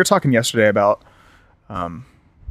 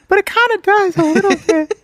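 laughing. Real, not acted. Laughing high squeal.

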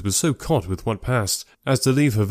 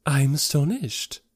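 slow, raised society-lady voice; astonished lady; 4 semitones higher than usual. Acted. Miss Bingley on her father's small library, astonished. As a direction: draw out the astonishment, pitched up.

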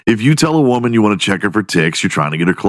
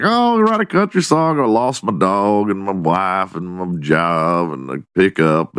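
lightly mocked country-song twang. Joking as kids about country songs, mock twang. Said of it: "add a little twang to your voice".

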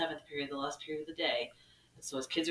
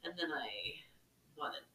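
mortified whisper, much softer; 8 dB quieter than usual. Real, not acted. Teacher recalling the mistake, whispering.

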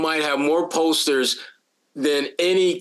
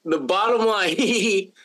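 higher voice breaking into a put-on giggle; teasing giggle; 4 semitones higher, slower than usual. Annoying a co-host who banned that laugh, teasing giggle. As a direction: giggle into it to torment your co-host. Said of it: "gonna do it to torment him".

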